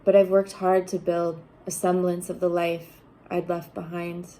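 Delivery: measured recital with deliberate pauses between lines; spoken poem, each line set apart and firmly begun; poetry reading. Acted. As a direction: read your poem to an audience, phrase by phrase. Reads own poem aloud.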